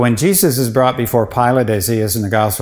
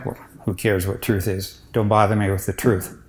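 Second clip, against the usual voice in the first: much softer, scornful dismissal; sneering; 2 semitones lower, 5 dB quieter than usual. Retold or imitated. Priest voicing Pilate's contempt for truth, soft sneer. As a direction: hush it with contempt, waving truth off. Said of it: "did he mean it in the sneering way?".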